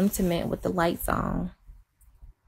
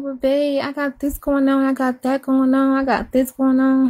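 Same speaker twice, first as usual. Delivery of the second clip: retold worried protest; 4 semitones higher than usual. Retells her worried protest to husband.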